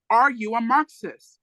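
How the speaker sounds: retold cop barking the question; very loud demanding. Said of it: "in a very loud, demanding voice".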